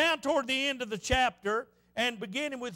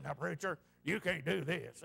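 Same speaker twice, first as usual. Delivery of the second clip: very low, hushed voice of a stuffy preacher; retold whisper; 9 semitones lower, 6 dB quieter than usual. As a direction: lean in and quietly admonish him, much lower and softer. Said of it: "he whispered to him".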